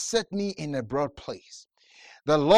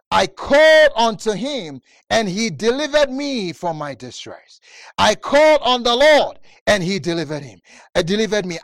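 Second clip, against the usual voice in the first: preaching shout; 7 dB louder than usual. Acted.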